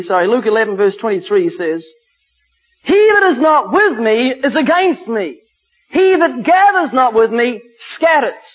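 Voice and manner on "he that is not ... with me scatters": deliberate, emphatic Bible reading; scripture declamation. Acted. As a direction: proclaim the verse with weight.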